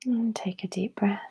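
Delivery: calm, spacious breathing instruction; guided meditation. Real, not acted.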